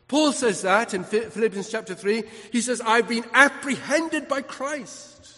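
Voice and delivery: fervent preaching. Real, not acted. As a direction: proclaim the apostle's words with force. Preaches from Philippians.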